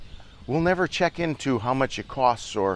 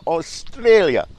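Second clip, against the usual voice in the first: Australia drawn out slowly, high and loud in a put-on Australian accent; exaggerated Australian pronunciation of Australia; mock Australian accent; 7 semitones higher, 7 dB louder, slower than usual. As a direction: stretch Australia like a hammy Aussie, falling at the end. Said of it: "I'll kick the accent".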